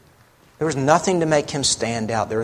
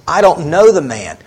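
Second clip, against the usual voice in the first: acted denial, building louder and higher with each repeat; insistent denial; 3 semitones higher, 4 dB louder than usual. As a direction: insist more forcefully each time, as Peter does.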